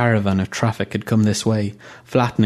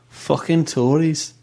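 disgusted; 7 semitones higher, slower than usual. Acted. Mo curses the Conservatives.

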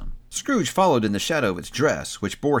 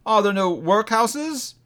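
higher, slow, biting echo; spirit mocking; 10 semitones higher, slower than usual. A narrator's reading. Spirit throwing Scrooge's words back, slow and biting. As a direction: throw his own words back, slowly. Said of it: "turning on him ... with his own words".

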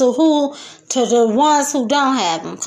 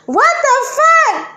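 high, slow, louder mock shock; 11 semitones higher, 4 dB louder than usual. Voicing beaten rivals, high loud mock disbelief. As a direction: play the stunned loser, pitched way up. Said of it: "They be like".

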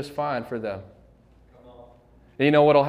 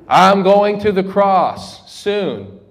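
solemn Jesus; 4 semitones higher, 6 dB louder, much slower than usual. Retold or imitated. Jesus voiced in retelling.

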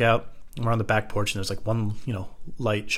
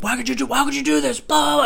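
mocking yell. Friends at the party scolding the fallen man, high mock voice. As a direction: squeal it like nagging bystanders. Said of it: "they're like".

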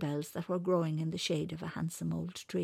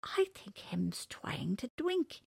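cheeky rabbit voice; 4 semitones higher, slower than usual. Acted. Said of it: "said the cheeky little rabbit".

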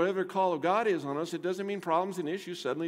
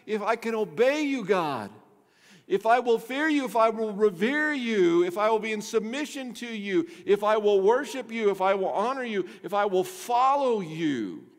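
rising, louder preaching appeal; preaching build; 5 semitones higher, 3 dB louder than usual. Acted. Pastor voices the believer's vow to God. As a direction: build the conditions toward the promise.

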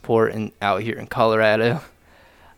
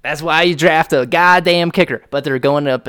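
loud, raised, emphatic declaration; crowing fan; 6 semitones higher, 8 dB louder than usual. Real, not acted. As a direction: crow it triumphantly. Fan crowing over his team's win.

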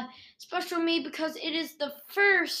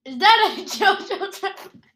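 clipping distorted mic; 4 semitones higher, 7 dB louder than usual. Real, not acted. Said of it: "Stop yelling into the microphone".

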